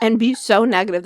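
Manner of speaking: talking with a mouthful; words round a bite of food; mouth full. Real, not acted. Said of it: "talk with your mouth full".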